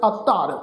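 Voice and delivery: ਅਧਰ with the ਧ doubled, ਅੱਧਰ. Shown as a demonstration. Teacher shows congregation the adhak, doubled ਧ in ਅਧਰ. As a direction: lean on a geminated ਧ in ਅਧਰ. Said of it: "ਧੱਦੇ ਦੇ ਉੱਪਰ ਅਧਿਕ ਲਾ ਕੇ ਉਚਾਰਨ ਕਰਾਂਗੇ".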